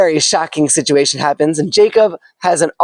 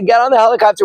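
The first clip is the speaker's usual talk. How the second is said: higher, urgent call from above; rescuer calling; 6 semitones higher, faster than usual. Acted. Helicopter crew urges the man up the ladder, calling. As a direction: call down over the rotor noise.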